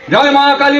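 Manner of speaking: lightly mimicked battle cry to the goddess; acted devotional cry.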